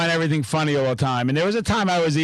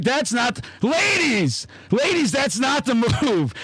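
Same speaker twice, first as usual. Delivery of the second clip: mock lecture; 5 semitones higher than usual. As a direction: call it out like a half-joking lecture. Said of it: "I was like".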